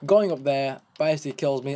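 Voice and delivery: ordinary talk, nothing marked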